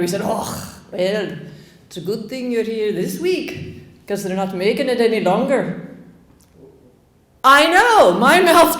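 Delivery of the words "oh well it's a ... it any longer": just a hint of a Scottish bartender; Scottish Light, barely there; light Scottish accent. Bartender breaking the news to tourists, a hint of Scottish. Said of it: "I'm just gonna do Scottish Light".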